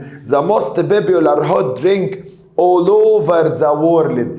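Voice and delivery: very slow, word by word; slow reading. Shown as a demonstration. Teacher reading an exam sentence to students, very slowly. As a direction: read the phrase out slowly for the class.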